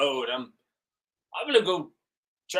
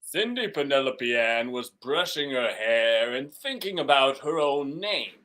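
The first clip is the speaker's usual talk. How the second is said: storybook narration; slower than usual. Acted.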